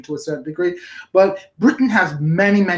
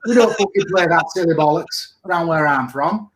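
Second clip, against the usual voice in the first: cocky Hull local putting someone down; Hull accent. Shown as a demonstration. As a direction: exaggerate your Hull accent. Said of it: "That's how people speak in Hull".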